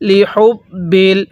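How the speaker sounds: লি হুব বিল with a lightly aspirated h; airy ha sound. Shown as a demonstration. Teacher models the letter ha, light airy h in লি হুব বিল. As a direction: let a little air out on the h of হুব. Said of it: "মুখ দিয়ে হালকা বাতাস বের".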